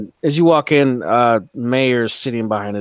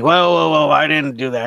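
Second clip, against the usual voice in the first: higher, louder frightened backpedal; a cornered man scrambling to deny it; mayor yelping in fear at the hulking visitor; panicked protest; 5 semitones higher, 5 dB louder than usual. Acted. Mayor frightened after hammer slam.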